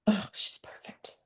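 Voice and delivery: soft, slow, breathy whisper; whispered aside. Real, not acted. Host adores the cat, slow hushed whisper. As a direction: whisper it, barely voiced.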